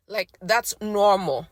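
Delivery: real voice giving out; voice cracking. Real, not acted. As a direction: let the line falter. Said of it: "my voice just went out on me".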